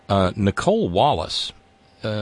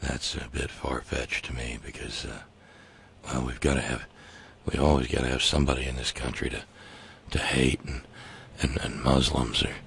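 mock Count Dicula; 8 semitones lower, 7 dB quieter than usual. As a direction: lower and softer, sneering like a smug count. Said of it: "Count Dicula says".

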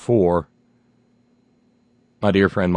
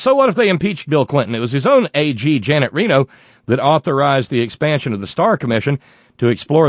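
snooty voice; 3 semitones higher, faster than usual. Retold or imitated. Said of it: "stop with the funny snooty voice".

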